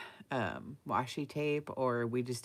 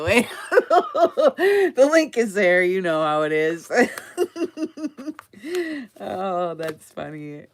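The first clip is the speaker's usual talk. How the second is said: laughing; 7 semitones higher, 12 dB louder than usual. Real, not acted. Laughs at her own sales plug.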